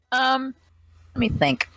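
a lightly voiced old person pondering. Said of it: "This is my old person voice".

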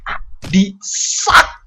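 ordinary delivery

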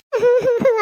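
a loud put-on wail before pleading; theatrical crying wail; fake sob. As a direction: burst into a staged sob. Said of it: "ಸಾಕು ನಿನ್ ಕಣ್ಣೀರಿನ ನಾಟಕ".

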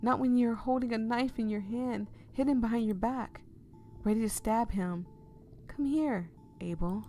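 desperate pleading. Acted. Pleading with possessed self.

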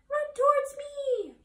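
very high, slow, loud honk; yelling gander. A narrator's reading. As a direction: stretch it out like a honking gander. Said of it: "yelled the gander".

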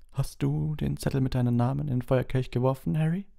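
calm question in a high voice; Dumbledore. A narrator's reading. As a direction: ask calmly, pitch lifted. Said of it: "fragte Dumbledore ruhig". (ruhige Frage, hohe Stimme)

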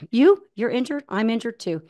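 lightly imitated Japanese accent. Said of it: "he said it in his accent".

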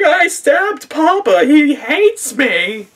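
very high, loud, slow fake wail; mock crying. Daughter crying at the cliff over stabbing Papa, hammed-up wail. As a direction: imitate a daughter bawling melodramatically. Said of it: "she's crying because she's like".

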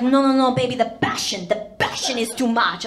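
hammed-up boyfriend begging; mock passionate. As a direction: overplay the passion. Stavros insisting.

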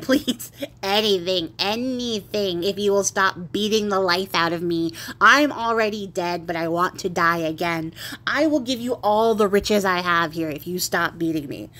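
put-on old ghost begging to be spared, pleading. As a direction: beg for mercy, stretching the words. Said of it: "starts to beg him to stop".

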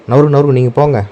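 loud, high urgent shoo; shooing the dogs. Real, not acted. Shooing the dogs away from the bees, loud urgent shout. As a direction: drive them off before the bees sting.

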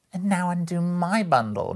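high, loud, sing-out demand; eager demand. Acted. First woman tells Joe to open her bundle, eager. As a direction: call it out high and insistent.

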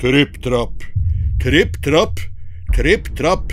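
stomp them out heavily; heavy stomping steps. Acted. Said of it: "så tung at det både knaket og braket".

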